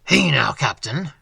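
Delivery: a hint of a guttural Dutch accent; lightly voiced Dutch innkeeper greeting in a guttural accent. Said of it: "in a guttural accent".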